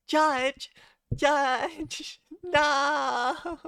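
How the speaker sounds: high loud repeated call; calling out loudly. Acted. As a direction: call the judge loudly, half laughing. Calling out to the judge.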